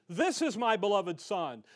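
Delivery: firm, emphatic announcement of a king; public proclamation. Acted. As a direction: proclaim it to the people, "This" punched. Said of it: "who do the people need to know?".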